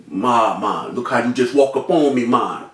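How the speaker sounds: low retold excuse voice; low-voiced gunman. Gunman complains about being walked up on, low voice. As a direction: drop well low to play the other man.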